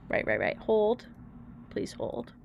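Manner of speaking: breathy whisper under the breath; quietly asking chat to wait; whispered aside. Real, not acted. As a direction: murmur it to yourself while fiddling. Muttered to herself.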